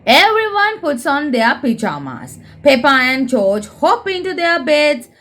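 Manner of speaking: lively storybook reading for little ones; reading to children. A narrator's reading. Presenter reading a Peppa book aloud to young viewers, lively storybook voice. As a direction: read it like a bedtime picture book.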